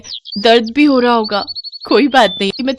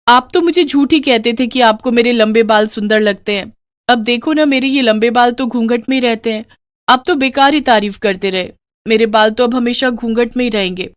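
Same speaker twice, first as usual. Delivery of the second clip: put-on higher, pouting young wife's complaint; sulky young bride; 4 semitones higher than usual. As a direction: tease your husband about your hidden hair.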